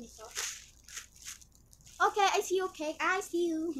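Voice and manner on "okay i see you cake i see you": playful, a touch higher and louder "I see you"; Purple Banana impression. Greeting the cake like Purple Banana, playful and lightly louder. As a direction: tease the cake like a fellow youtuber. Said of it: "shout out to Purple Banana because I'm doing like her".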